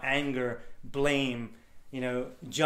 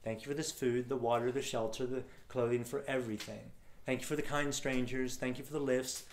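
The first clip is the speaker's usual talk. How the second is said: soft prayer; 7 dB quieter than usual. Retold or imitated. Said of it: "and I'd say".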